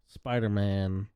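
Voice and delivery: ordinary talk, nothing marked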